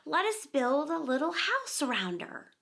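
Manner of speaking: breathy whisper of an idea; lightly voiced excited whisper; hushed. A narrator's reading. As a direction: whisper it with sudden inspiration. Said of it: "cried Peter".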